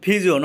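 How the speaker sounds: পিজিয়ন with a breathy ph, 'phijion'; aspirated p. Shown as a demonstration. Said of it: "পি এর উচ্চারণ ফ হয়েছে". (পিজিয়ন শব্দে প-কে ফ-এর মতো বলা)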